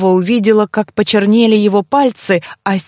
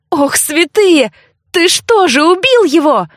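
high, alarmed questioning; shocked and appalled, voice high; horrified cry; 8 semitones higher than usual. A narrator's reading. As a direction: raise the pitch in dismay. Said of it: "заорала я".

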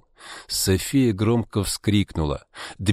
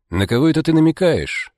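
higher, louder roar; 7 semitones higher, 4 dB louder than usual. A narrator's reading. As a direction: bellow it in outrage. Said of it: "взревел Иван".

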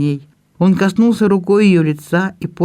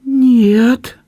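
high, louder sobbing no; sobbed no; 7 semitones higher, 4 dB louder than usual. Acted. Belinda answers her brother's questions with a sob. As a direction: push the word out through a sob. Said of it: "всхлипнула Белинда".

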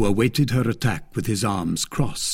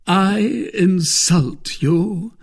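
slow, scornful echo; contempt; 9 semitones higher, 5 dB louder, much slower than usual. Acted. Lord de Winter mocking Milady's accusation, contemptuous. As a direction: throw her word back with disdain. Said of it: "with contempt".

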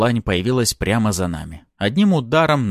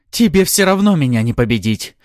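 loud, raised-pitch defiant roar; 4 semitones higher, 6 dB louder than usual. A narrator's reading. Succubus defying the hero mid-fight, roaring. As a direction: roar it at your opponent. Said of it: "Взревела Артара".

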